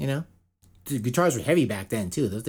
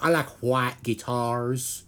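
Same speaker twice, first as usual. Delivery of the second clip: drawn out; much slower than usual. Shown as a demonstration. Repeats phrase in drawn-out voice.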